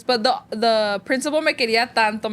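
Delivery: ordinary talk, nothing marked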